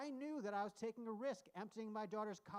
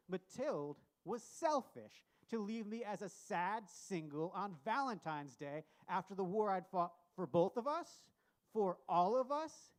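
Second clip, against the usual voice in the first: louder and louder angry shouting; building to an outraged yell; furious rant; 8 dB louder than usual. Acted. Ranting about wife leaving him.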